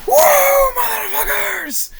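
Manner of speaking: mock battle yell in a Scottish accent. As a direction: whoop it like a wild Scot, held back in volume. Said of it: "You hear the yell simply of a Scottish accent, just yelling".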